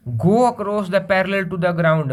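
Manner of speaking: slow, word-by-word read-out; slow dictation read. Shown as a demonstration. Teacher to students, reading the definition, slow dictation read. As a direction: read it out slowly so the class can write.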